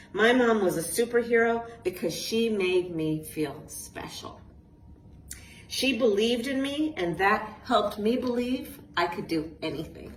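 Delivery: put-on lively storybook reading to kids; reading to children. A narrator's reading. Author reading her book aloud to a group of children, lively storytelling. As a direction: read it like a bedtime picture book.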